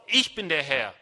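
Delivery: firm, punched-out declaration; loud, with emphasis. Acted. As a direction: assert authority as God. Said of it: "Das sagt er laut".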